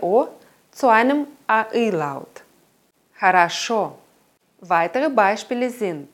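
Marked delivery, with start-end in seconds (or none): 3.1-4.0 Хорошо said khə-ra-SHO, only the last O full; Russian vowel reduction. Shown as a demonstration. Teacher demonstrating stress on the last O. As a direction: stress the last syllable of Хорошо, reduce the first two O's. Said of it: "Das mittlere O wird zu einem reduzierten A".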